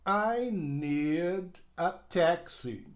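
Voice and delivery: I need a taxi spoken slowly and clearly; slow teacher demo of I need a taxi; slow model sentence. Shown as a demonstration. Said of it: "Veja bem".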